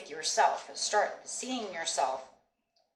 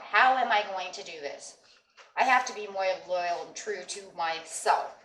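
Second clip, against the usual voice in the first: determined; 4 dB louder than usual. Retold or imitated. Inner voice claiming victory.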